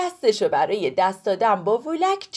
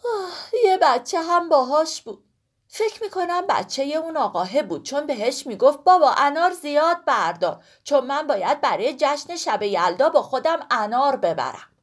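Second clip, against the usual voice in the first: high voice opening on a sigh; sigh, then remember the child; sighing pomegranate; 4 semitones higher, 3 dB louder than usual. Acted. Sorkhoo sighs and recalls the child to Woolak, high. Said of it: "سرخو آهی کشید".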